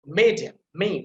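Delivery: "Median" with a loud, emphasized ME; stress on ME. Shown as a demonstration. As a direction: hit the opening "me" of "Median". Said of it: "that will be emphasized".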